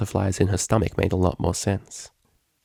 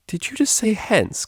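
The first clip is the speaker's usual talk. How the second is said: giggling; 14 semitones higher than usual. A narrator's reading. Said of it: "giggled Octavia".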